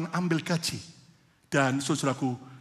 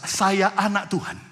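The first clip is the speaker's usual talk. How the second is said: "Saya anak Tuhan" said louder, with full voice; 4 semitones higher, 4 dB louder than usual. Shown as a demonstration. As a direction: proclaim "Saya anak Tuhan" with more force. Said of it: "Lebih keras".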